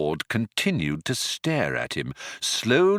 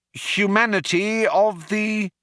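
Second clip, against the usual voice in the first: bluffing Arthur; 12 semitones higher than usual. Acted.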